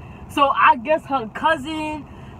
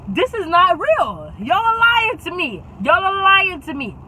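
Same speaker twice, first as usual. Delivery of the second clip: disbelieving protest; 5 semitones higher than usual. Retold or imitated. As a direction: stretch it out in outraged denial. Retold disbelief at friends' story.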